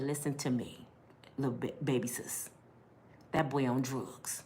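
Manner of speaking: a hint of a stern big sister; sister's warning. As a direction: lay it down like a worried older sister. Sister voiced low, serious warning.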